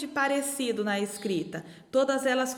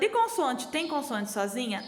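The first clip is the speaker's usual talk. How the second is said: voicing a student. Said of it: "tá perguntando".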